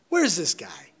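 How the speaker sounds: whispered scoffing question; mocking whisper. Preacher voicing a scoffer asking for God, whispered. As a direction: hiss it out like a doubter mocking. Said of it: "You remember hearing the statement?".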